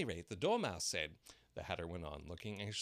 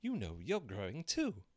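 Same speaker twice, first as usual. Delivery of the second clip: bold; 5 semitones higher, 5 dB louder than usual. A narrator's reading. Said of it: "Alice more boldly".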